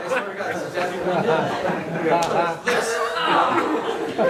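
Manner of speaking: words squeezed through laughter; laughing as he talks. Real, not acted. Storyteller swearing it's true, still laughing. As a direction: speak through laughter, a bit fast.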